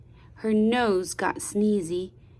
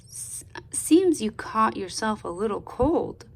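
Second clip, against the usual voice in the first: warm daddy voice. Acted. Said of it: "Daddy said in a warm, in his warmest daddy voice".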